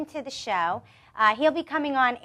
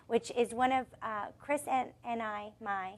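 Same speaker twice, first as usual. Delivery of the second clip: stumbling over words, losing the thread; tongue tied; 7 dB quieter than usual. Real, not acted. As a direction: trip over the words and restart. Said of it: "I'm really tongue-tied today".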